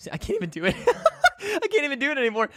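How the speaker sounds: high laughing self-mockery. Real, not acted. Laughing at his own failed demo, high giggly. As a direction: giggle through it.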